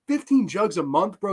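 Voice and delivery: can't believe the amount; incredulous repeat. Real, not acted. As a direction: echo the number back in amused disbelief, rising. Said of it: "Oh my God".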